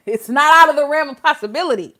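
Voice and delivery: said through a laugh. Real, not acted.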